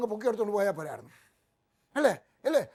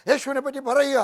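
higher, louder call to go and tell; loud preaching cry; 6 semitones higher, 8 dB louder than usual. Acted. Preacher calling the church to speak of Jesus, loud cry. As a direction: shout the charge to the crowd.

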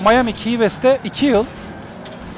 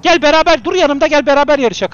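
raised, loud call to a rival; 5 semitones higher, 5 dB louder than usual. Real, not acted. Gamer inviting another player to race alongside, calling out. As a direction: call them over urgently.

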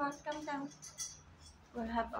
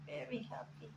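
quiet voiced coo to the pet; gentle murmur; soft coo; 7 dB quieter, faster than usual. Real, not acted. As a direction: say it softly, voiced, tender. Cooing over massaged bird.

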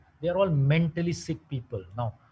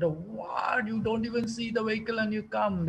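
imitating the panicked lady driver's cry; retold shout; 8 semitones higher than usual. Panicked lady driver scolds the man who hit her car, mock shout. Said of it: "she shouted".

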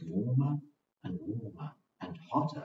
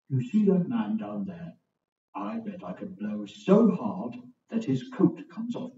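boastful wind voice; 4 dB louder than usual. Acted. Boastful west wind speaks.

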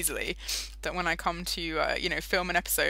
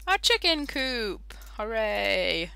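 excited; 3 semitones higher, slower than usual. Real, not acted. Excited reveal.

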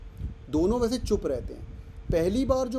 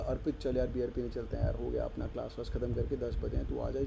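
mild conspiratorial invite; 5 semitones lower, 7 dB quieter than usual. Retold or imitated. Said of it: "मैंने इसको बोला".

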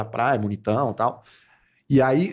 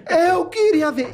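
mock shout; 11 semitones higher, much slower than usual. Man imitates girl shouting she wanted to see: high drawn-out shriek. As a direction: shriek it slowly like she did.

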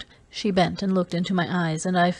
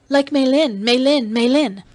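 higher, louder, each name pressed home; deliberate taunt; 6 semitones higher, 5 dB louder than usual. Acted. Dalisa needling Kiral with the name, deliberate taunt. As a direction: repeat the name on purpose to provoke. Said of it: "Dalisa repeated deliberately".

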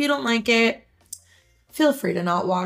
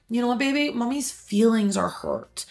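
tender mom; 3 semitones higher than usual. Retold or imitated. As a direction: gently tell your child. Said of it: "I was like".

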